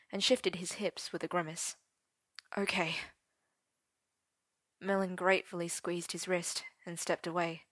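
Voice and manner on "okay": whispered. Acted. Arthur yielding quietly.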